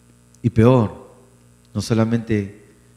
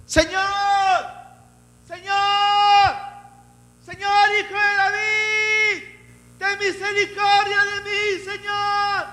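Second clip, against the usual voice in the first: high wailing plea, drawn out; desperate woman crying out; slower than usual. Acted. Preacher voicing the Canaanite woman's high wailing plea. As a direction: cry to the Lord like a desperate mother. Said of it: "clamando, diciendo".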